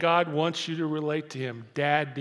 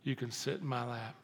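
softer, tender grandpa reply; 3 semitones lower, 8 dB quieter than usual. Retold or imitated. Grandpa answering his grandson softly and tenderly. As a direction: reassure the grandson gently. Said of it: "And I said".

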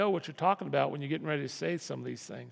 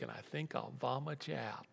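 whispered threat; 3 semitones lower, 8 dB quieter than usual. Acted. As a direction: whisper it, disgusted. Jesus quoted threatening the church.

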